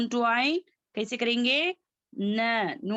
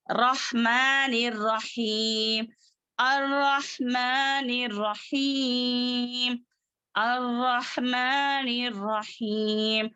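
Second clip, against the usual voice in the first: slow, level-toned verse with elongated vowels; Quran recitation; much slower than usual. Shown as a demonstration. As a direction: recite measuredly, holding the long syllables.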